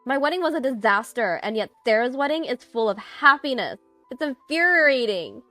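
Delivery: loud, high, seething complaint; infuriated sister's outburst; spat out angrily. A narrator's reading. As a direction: spit it out in jealous fury. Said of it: "Melanie spat out".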